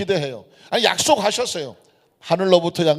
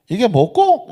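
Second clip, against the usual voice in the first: higher-pitched Gyeongsang accent with swinging tune; Gyeongsang dialect; 4 semitones higher, 3 dB louder, slower than usual. Shown as a demonstration. Preacher puts the verse into Gyeongsang speech for the congregation, Gyeongsang accent. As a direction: ask it like a Gyeongsang local. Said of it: "경상도 말로".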